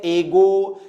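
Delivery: "एगो" opening on a full "ay"; students' mispronunciation. Retold or imitated. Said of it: "कुछ बच्चे pronounce करते हैं". ("एगो" में शुरू में साफ़ "ए")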